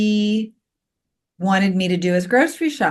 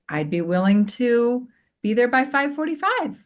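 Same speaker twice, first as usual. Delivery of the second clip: higher, gently willing offer; nice, kind tone; 4 semitones higher than usual. Shown as a demonstration. Mom answering her teenage son's pickup request, nicely. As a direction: offer it kindly in a lifted voice. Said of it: "notice even in my tone of voice".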